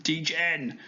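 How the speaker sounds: softly spoken bad German accent; poor German accent. Shown as a demonstration. Teacher recapping the story, poor German accent. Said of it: "there's my very poor accents there".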